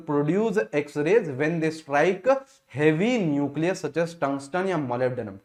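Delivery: each word read out slowly for note-taking; slow dictation. Acted. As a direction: dicteer het langzaam en duidelijk.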